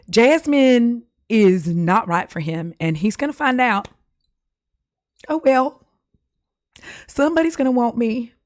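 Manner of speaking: hammed-up rejected bachelorette; mock wounded dignity; dismissed contestant. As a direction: play a spurned Southern contestant putting on a brave face. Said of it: "when I get dismissed".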